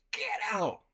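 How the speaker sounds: retold yell at contained volume; yelling man's voice. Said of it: "is yelling. It is a man's voice".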